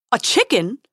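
loud, startled squeak. A narrator's reading. Prince loses his nerve before the dragon, squeaking. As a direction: squeak it as an indignant question. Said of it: "squeaked the prince".

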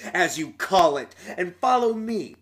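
lightly voiced bossy ghoul. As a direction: order him about like a brute. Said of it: "said the ghoul".

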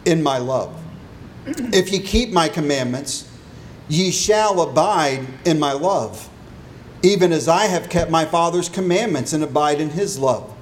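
solemn King James reading voice; scripture reading. Acted. Reads scripture aloud before sermon.

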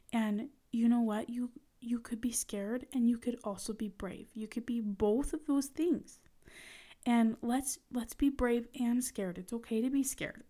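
calm him down kindly. Retold or imitated. Comforting scared son at preschool door.

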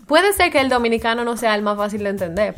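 said in light Dominican Spanish; Dominican accent. Shown as a demonstration. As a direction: slip into an easy Dominican accent. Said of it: "esto lo voy a decir en dominicano".

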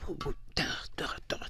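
soft, toneless stuttering noises; shaking demon. Retold or imitated. Demon with no idea what to do, hushed shaky stutter. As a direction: imitate a quivering stammer, barely voiced. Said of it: "That demon shaking up in they boots".

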